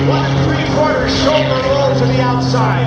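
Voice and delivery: lively live play-by-play announcing; airshow commentator. Real, not acted. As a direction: call the stunts to the crowd.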